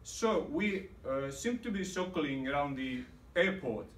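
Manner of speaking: lightly imitated Indian accent, lilting opening; quoting a seatmate in a peculiar Indian accent. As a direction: put on a mild Indian accent. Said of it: "said in a peculiar accent".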